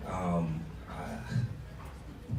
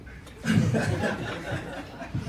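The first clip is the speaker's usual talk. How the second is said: high-pitched mock laughing fit; imitated laugh; 11 semitones higher than usual. Uncle still laughing on the call, imitated high laugh. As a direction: keep laughing as the uncle would. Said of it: "he's laughing".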